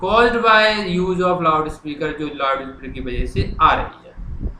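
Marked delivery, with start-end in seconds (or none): 0.0-2.1 very slow, word by word; slow dictation. Shown as a demonstration. Teacher writing the letter on the board, slow dictation. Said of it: "अब मैं लिखना शुरू कर रहा हूँ".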